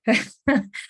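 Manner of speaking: a choked laugh through tears; tearful laugh. Real, not acted. Speaker retelling her diagnosis, choked laugh through tears. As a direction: laugh to keep from crying. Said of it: "I'm gonna try not to cry".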